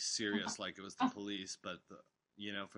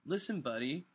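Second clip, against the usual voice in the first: loud, higher, heated rant; cussing out caller; 6 semitones higher, 7 dB louder than usual. Retold or imitated. DJ cussing out a caller live on air, loud and heated. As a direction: tear into the caller, loud and raised. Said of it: "I was like".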